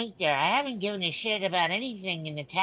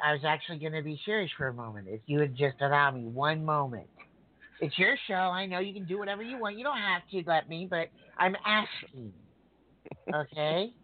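forced politeness. Real, not acted. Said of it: "I'm trying to be nice".

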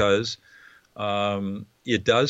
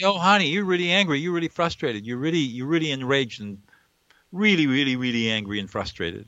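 put-on higher, gentle soothing voice to a child; soothing a toddler; 3 semitones higher than usual. Shown as a demonstration. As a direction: coo it like calming a two-year-old. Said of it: "You can say".

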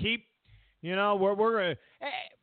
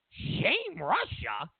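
incredulous echo; much slower than usual. Acted. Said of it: "what are you kidding me?".

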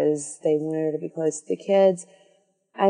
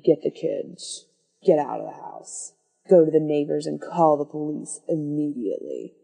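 stern dad; 2 semitones lower than usual. Retold or imitated. Dad ordering the babysitter out of the house, understated sternness. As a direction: give grave, controlled instructions as a dad. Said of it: "the dad gets really stern all of a sudden".

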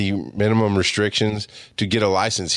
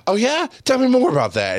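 mock interest. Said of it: "he just looks".

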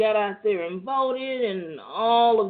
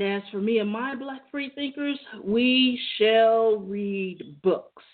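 proclaiming; 4 semitones higher, slower than usual. Pretend. Mock solemn proclamation.

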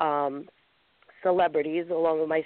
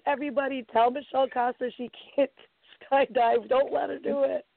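mock Snapchat announcement; 8 semitones higher than usual. Friend broadcasting on Snapchat.

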